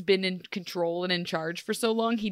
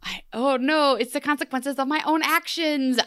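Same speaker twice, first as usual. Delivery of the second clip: mock lament; 3 semitones higher than usual. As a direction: wail in mock disgust at your own medicine.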